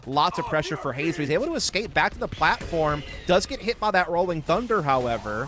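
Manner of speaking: rising, punchy esports call; play-by-play. Real, not acted. Caster follows Hayes under pressure, punchy play-by-play. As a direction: call each hit as it lands.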